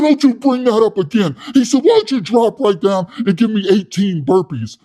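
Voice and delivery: high, loud, puffed-up yelling; loud hothead Wes. Retold or imitated. Wes scolding his soy boy cellmate, loud and high. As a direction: rant like a tough guy with something to prove.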